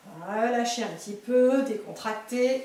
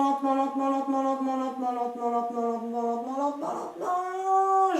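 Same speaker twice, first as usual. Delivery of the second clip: slowly; 2 semitones lower than usual. Shown as a demonstration. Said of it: "on descend doucement".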